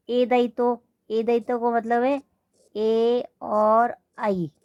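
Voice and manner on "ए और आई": drawn-out vowels. Shown as a demonstration. Teacher to class, drawing out the vowels slowly. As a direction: stretch ए and आई very slowly. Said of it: "ये दोनों स्वर".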